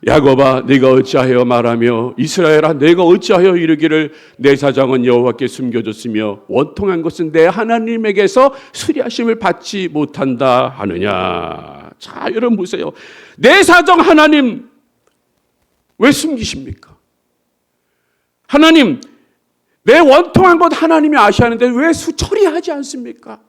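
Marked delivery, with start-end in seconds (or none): 0.1-11.9 scripture reading aloud. Acted. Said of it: "시작". 13.4-23.4 raised, higher plea, pleading and protesting; a believer protesting loudly to God about unfair hardship, anguished; anguished complaint to God. Retold or imitated. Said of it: "이렇게 사람들은 얘기하는 거예요".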